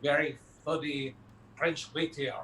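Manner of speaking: comic French waiter accent; slow, put-on French accent. Shown as a demonstration. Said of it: "I was doing a French".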